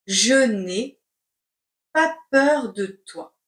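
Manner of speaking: chunked, with a pause after each part; slow dictation. Shown as a demonstration. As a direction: dictate it in pieces. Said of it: "C'est parti pour la dictée".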